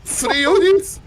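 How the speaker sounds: high, loud disbelieving cry; shocked outcry. Real, not acted. Caster reacts to narrow escape.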